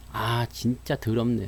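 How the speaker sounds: low, slow, quiet grumble; disgusted grumble. Acted. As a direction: mutter bitterly as a fed-up shareholder. 삼성전자 주주의 불평 흉내. (낮고 느리게 투덜대는 말투)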